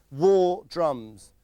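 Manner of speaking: echoing war drums in a Geordie voice; mock Geordie accent. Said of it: "is that how Geordies talk".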